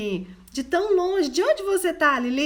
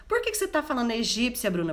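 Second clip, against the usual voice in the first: rattled off fast, half-joking objection; quick mock question; much faster than usual. A listener teasing Bruna about Egyptian talk, fast and playful. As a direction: fire off the listener's puzzled question.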